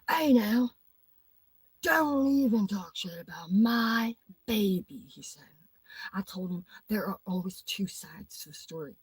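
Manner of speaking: high, slow mock-heroic voice; mocking Chris. Mimicking Chris bragging about defending her, high and smug. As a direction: lightly ham up a smug guy's brag. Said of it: "He was like".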